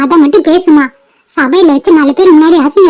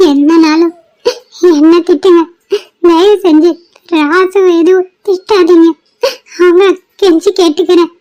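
tearful plea. Acted. Bride pleads in tears.

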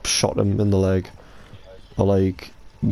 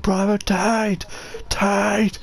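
imitating the video; 11 semitones higher, much slower than usual. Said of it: "was like".

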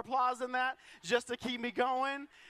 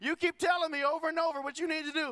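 wife's lecture; 3 semitones higher, faster than usual. Retold or imitated. Wife lecturing her husband about working out, fast mock scolding. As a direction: rattle it off like a fed-up wife. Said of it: "she's like".

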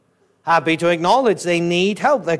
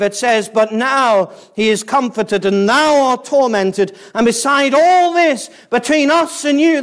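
emphatic, raised pulpit voice; impassioned preaching; 5 semitones higher, 4 dB louder than usual. Real, not acted. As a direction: drive the warning home, building higher and louder. Preaches no escape from hell.

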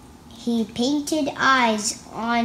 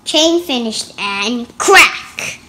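dramatic crack; 7 dB louder than usual. Acted. Dramatic thunder moment.

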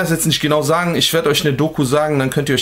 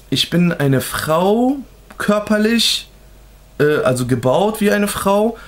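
slow, higher voice imitating hers; drawn-out words in a put-on higher pitch; imitated high voice; 6 semitones higher, slower than usual. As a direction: lightly imitate someone trying to sound high-voiced. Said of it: "versucht, auch so eine helle Stimme zu machen".

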